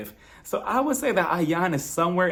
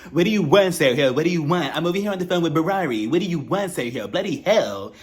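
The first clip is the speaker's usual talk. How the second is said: snapping. Retold or imitated. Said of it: "finally snaps on him".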